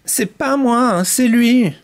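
mild mock cry of protest. Giraffe blames the canary to the panther, mild cry. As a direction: protest with a slight lift in the voice. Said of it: "La girafe crie".

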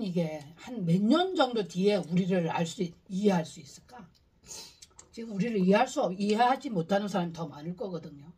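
speaking between bites of fruit; talking while chewing. Real, not acted. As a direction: mouth partly full. Seen 3: Right speaker bites fruit at 0.9s, chews, talks, bites again at 9.3s.

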